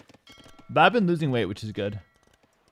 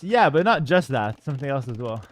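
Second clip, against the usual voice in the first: out of breath; 3 dB louder than usual. Real, not acted. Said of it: "Sorry, I'm still out of breath".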